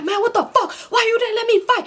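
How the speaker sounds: mock furious complaint; cussing out. Enemy angrily cusses out the man who stopped the fight. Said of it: "he cussing out the guy".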